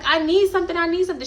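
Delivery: high panicked pleading; panicky. Retold or imitated. Friend freaking out.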